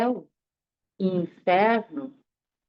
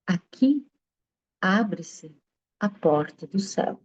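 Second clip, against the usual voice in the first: solemn pronouncement; 4 semitones lower than usual. Acted. Sage's solemn teaching moment.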